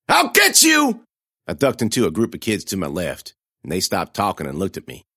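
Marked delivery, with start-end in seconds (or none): 0.1-1.1 high, loud shouted threat; furious threat. A narrator's reading. Bully yelling revenge at the fleeing girl, a shout. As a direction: yell the promise of revenge. Gomez threatening after scream.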